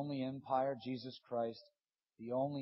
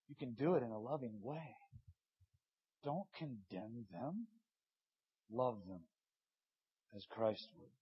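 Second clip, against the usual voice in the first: softer and slow, tender; gentle exhortation; 2 semitones lower, 3 dB quieter than usual. Acted. Preacher urging the church to love sinners, softer and slow. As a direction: ease it into their hearts.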